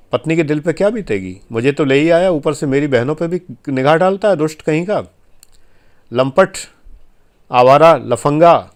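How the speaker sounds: scolding in an imagined wife's words; indignant wife. Acted. Voices the wife's indignant thoughts.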